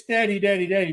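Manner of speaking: put-on high child voice calling; toddler calling daddy. Father imitating toddler calling daddy, high child voice. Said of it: "Then it's".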